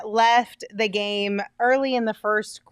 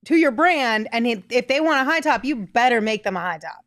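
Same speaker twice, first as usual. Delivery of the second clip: angry; 2 semitones higher than usual. Real, not acted. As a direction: get worked up about it. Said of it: "Sorry, I got a little angry at you there".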